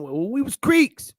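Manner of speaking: slow, high, proud "Creeks"; imitating a matter-of-fact southern elder. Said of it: "what kind of Indian".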